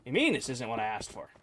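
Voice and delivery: retold disbelief, questioning it quietly; incredulous. Taken aback by customer's complaint.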